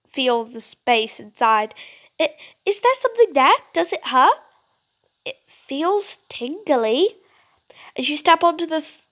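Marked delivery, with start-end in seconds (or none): 2.2-4.4 anxious question. Acted. Jane asking anxiously. 5.2-7.2 slow wonder. Acted. Child reaching into doorway.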